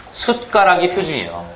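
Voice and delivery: "숟가락" carefully said 숟까락, t closing the first syllable; standard pronunciation. Shown as a demonstration. Teacher giving the class the standard form, careful standard pronunciation. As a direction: keep the ㄷ stop in "숟가락". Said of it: "표준은 뭐가 표준이냐면".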